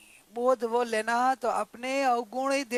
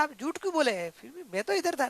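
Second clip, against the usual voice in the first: higher, sing-song objection; whining protest; 4 semitones higher than usual. Acted. Father-in-law protests he was sitting right here, aggrieved.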